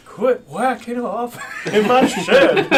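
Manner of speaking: high, loud, slow holler; hammed-up shout breaking into laughter; mock outraged yell. Player confronting those bastards in character, mock yell with laughter. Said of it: "and I say".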